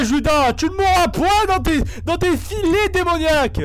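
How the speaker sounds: malédiction solennelle, aiguë et forte; maudis-le comme un prédicateur; prêcheur théâtral. Pretend. Exorcise un doppelganger en prêcheur. (voix de prêcheur exorciste)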